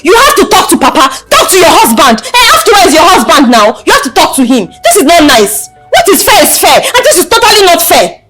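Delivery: heated, emphatic pleading for fairness; indignant protest. Acted. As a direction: urge her insistently, with force. Daughter pleading tenant's case to mother.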